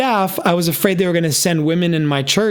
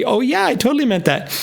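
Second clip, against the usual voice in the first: hoped-for answer; 8 semitones higher than usual. Retold or imitated. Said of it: "she would say".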